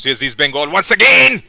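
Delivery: live football call bursting with urgency; excited commentary. Real, not acted. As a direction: voice climbing to a loud, high peak, then easing. Chance builds in live match commentary.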